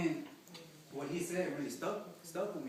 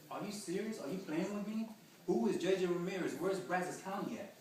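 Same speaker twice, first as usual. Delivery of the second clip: higher, incredulous retold outburst; judge freaking out; 4 semitones higher than usual. Judge questioning the lawyer, shocked higher outburst. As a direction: imitate the judge's shocked disbelief. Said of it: "And she freaked out".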